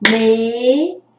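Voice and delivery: mentira broken into men, ti, ra with pauses; syllable by syllable. Shown as a demonstration. Teacher counting out three syllables of mentira, syllable by syllable. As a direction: say "mentira" one separated syllable at a time. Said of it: "porque eu falo".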